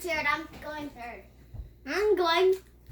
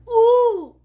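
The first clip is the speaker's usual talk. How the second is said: excited ooh; 5 semitones higher, 15 dB louder than usual. Real, not acted. Reacting to the wobbling tower.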